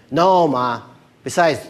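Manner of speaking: loud, drawn-out whine to Ma; hammed-up tired son; whining son. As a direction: complain like a kid dragged out of bed. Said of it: "the son who wakes up".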